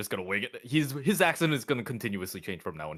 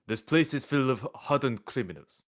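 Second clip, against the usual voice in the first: put-on light Italian-tinged accent on the prison guard; slightly Italian accent. Prison guard warning a visitor about inmates, slight Italian accent. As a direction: read it with a faint, muddled Italian accent. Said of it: "Why am I going, like, slightly Italian?".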